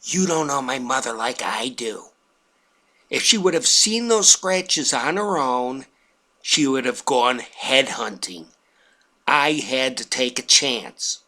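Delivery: even and unbothered; calm. Retold or imitated. Wife calmly explaining to her husband, calm. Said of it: "very calmly".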